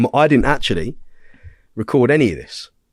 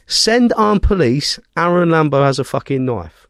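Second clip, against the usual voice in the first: urgent emergency call; 3 semitones higher than usual. Retold or imitated. Mimicking the attacker calling police, urgent emergency call. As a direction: imitate an insistent caller, starting high and stretched.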